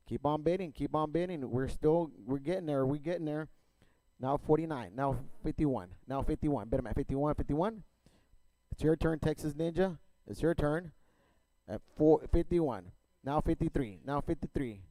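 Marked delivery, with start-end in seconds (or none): 4.2-14.8 rapid rhythmic auction chant; auctioneer. Real, not acted. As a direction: rattle off bids like an auctioneer. Auction chant bidding calls.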